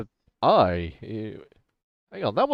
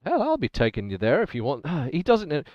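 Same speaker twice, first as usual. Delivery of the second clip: put-on lightly English-accented trader. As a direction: switch into a proper English accent. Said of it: "the English accent's amazing".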